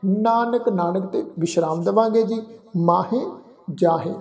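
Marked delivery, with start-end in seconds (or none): 0.0-0.7 slow, chant-like Gurbani reading; drawn-out verse with pauses between phrases; scripture recitation. Shown as a demonstration. 2.8-4.1 ਮਾਹੇ and ਜਾਹੇ with nasal endings; nasalised endings. Shown as a demonstration. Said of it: "ਇਹਨਾਂ ਨੂੰ ਬਿੰਦੀ ਸਹਿਤ".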